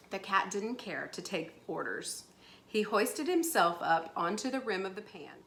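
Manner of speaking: animated storybook reading; story narration. A narrator's reading. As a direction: read the story aloud with lively emphasis. Reads story aloud to pupils.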